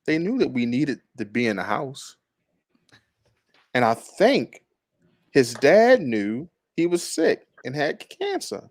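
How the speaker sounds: slow, drawn-out account with long pauses; lightly voiced character, measured and halting; Nancy's voice. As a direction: read it slowly as a wife recalling family help. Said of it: "read it in Nancy's voice".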